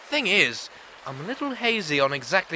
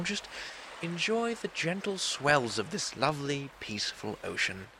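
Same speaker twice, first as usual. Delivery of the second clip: wry calm; 2 semitones lower, 7 dB quieter than usual. Acted. Wry calm before storm.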